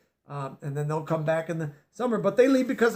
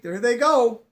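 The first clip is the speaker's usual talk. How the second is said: squeaky wood rat; 4 semitones higher, 5 dB louder than usual. Acted. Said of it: "he squeaked".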